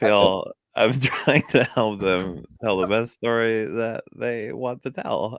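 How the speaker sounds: lightly voiced nerdy guy; a hint of a nasal nerd. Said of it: "he's got, like, a nerd voice".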